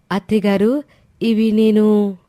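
a grateful bride thanking her mother-in-law through happy tears; tearful young daughter-in-law. Acted.

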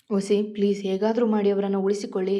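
sobbing plea. Acted. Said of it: "ಬೀಕಳಿಸಿ ಅತ್ತವಳಿಗೆ".

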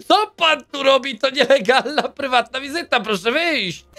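a hint of a fussy official; stern guard voice. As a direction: play the prim guard ordering him out. Guard voice evicting a visitor.

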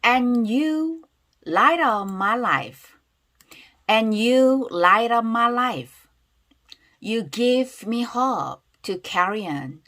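slow, drawn-out, deliberate reading; big pronunciation demo. Shown as a demonstration. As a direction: give each phrase slowly for repeating. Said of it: "크게 발음 따라볼게요". (또박또박 천천히 따라 읽기 시범)

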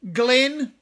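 sharp loud shout of a name; loud sudden call. Acted. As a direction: bark the name across the room. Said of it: "he shouts".

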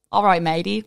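half-hearted Australian accent; attempted Aussie accent. Shown as a demonstration. Guest pressed to do an Aussie accent, tentative Australian attempt. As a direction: have a brief go at an Aussie accent. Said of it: "So do your Aussie accent".

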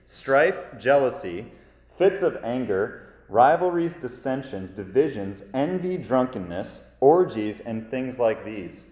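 measured, solemn Bible reading; scripture reading. Acted. Scripture reading before sermon.

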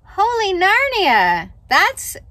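ordinary delivery

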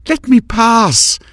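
slow, high, imperious command; commanding order. A narrator's reading. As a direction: order him out of the way, word by word. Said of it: "she ordered".

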